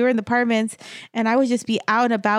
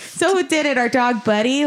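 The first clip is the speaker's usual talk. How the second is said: higher, laughing sarcasm; mock the lie with a laugh; sarcastic; 4 semitones higher than usual. Real, not acted. Sarcastic retort about brother.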